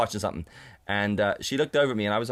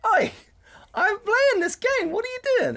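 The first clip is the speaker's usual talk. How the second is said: high, loud mock outrage; indignant protest; 5 dB louder than usual. Player objecting as friend exits the game, indignant. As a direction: call out in squawking disbelief at being abandoned. Retells protest when she quit.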